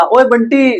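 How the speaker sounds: put-on a light call of ओए Bunty from a girl; friend calling out. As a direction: call a friend suddenly by name. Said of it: "एकदम से बोला". (दोस्त का बंटी को पुकारना)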